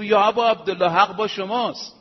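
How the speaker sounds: loud, earnest call to the Imam; loud earnest address. Acted. Companion calling out to Imam Husayn, loud and earnest. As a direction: declare it fervently.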